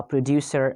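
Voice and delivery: producer ending in a schwa; British non-rhotic producer. Shown as a demonstration. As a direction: drop the final R of producer. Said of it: "they are using schwa sound at the end".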